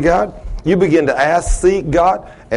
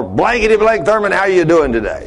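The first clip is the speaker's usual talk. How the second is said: lightly imitated cussing old man, pitched up; higher, casual greeting with censored swearing; foul-mouthed old customer; 5 semitones higher than usual. Customer greeting his mechanic at the door, imitated foul-mouthed familiarity. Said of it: "that's the way he talked all the time".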